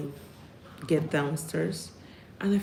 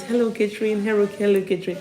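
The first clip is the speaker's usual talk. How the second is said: mock cheerful greeting; 4 semitones higher, 4 dB louder, faster than usual. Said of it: "That means".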